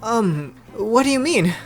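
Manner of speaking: high, unsure question; hesitate, then pitch it up; hesitant Noi. Acted. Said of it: "hesitated when answering".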